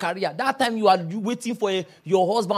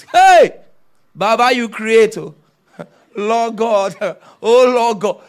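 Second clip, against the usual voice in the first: a hammed-up lustful shout at a pretty girl; excited catcall; 2 semitones higher, 10 dB louder, much slower than usual. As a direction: holler at a pretty girl, overwhelmed. Man ogling girl at filling station.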